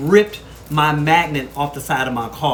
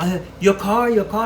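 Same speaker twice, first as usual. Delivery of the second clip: mock Asian accent, pitched higher; playful higher Asian accent imitation; imitated Asian accent; 8 semitones higher, 5 dB louder than usual. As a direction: lightly imitate an Asian man pointing out the car, voice up high. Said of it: "I just automatically go back to the accent".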